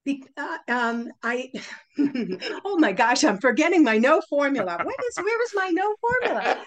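high, loud, laughing dismay at a mental blank; flustered. Real, not acted. Speaker blanking on her own formula mid-demo, flustered. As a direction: exclaim in amused panic, pitch climbing.

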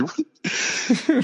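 high mock yell, held back in volume; retold yell. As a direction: imitate your own yell with a high voice. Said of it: "I just yelled".

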